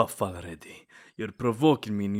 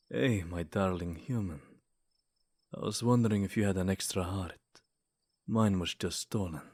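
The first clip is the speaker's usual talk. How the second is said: flirty pickup line; 3 semitones lower than usual. Acted. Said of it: "I'll show you how it's done".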